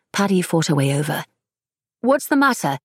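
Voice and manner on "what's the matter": concerned question. A narrator's reading. Paddy asking concerned.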